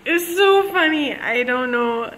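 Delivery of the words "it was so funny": laughing. Real, not acted. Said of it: "now I'm laughing even harder".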